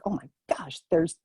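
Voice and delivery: hushed, amazed whisper; whispering in awe at spirits above; awed whisper. Retold or imitated. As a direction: breathe it out in wonder. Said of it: "And I was like".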